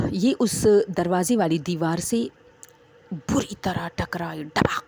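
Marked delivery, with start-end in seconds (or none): 4.4-4.8 imitated thud. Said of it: "ڈباک، اس طرح".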